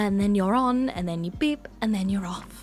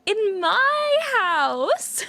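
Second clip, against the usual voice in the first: mock spooky host; 11 semitones higher, 5 dB louder, much slower than usual.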